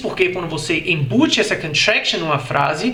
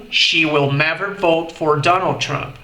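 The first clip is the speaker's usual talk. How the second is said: slightly slower repeat; slower than usual. Shown as a demonstration.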